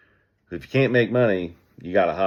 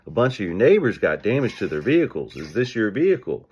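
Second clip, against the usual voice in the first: friendly salesman pitch. Shown as a demonstration. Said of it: "This is how I would say it".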